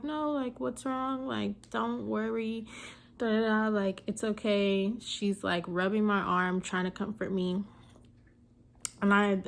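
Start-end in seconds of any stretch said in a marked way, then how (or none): 0.0-4.9 soothing doctor. Retold or imitated. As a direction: hush her gently like a doctor. Doctor comforting, voiced quote.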